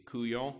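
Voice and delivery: couillon said in Cajun French, koo-YOHN, nasal final vowel; Cajun word. Shown as a demonstration. Pastor imagining a Cajun David speaking to God, careful Cajun couillon. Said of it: "hope I say it correctly".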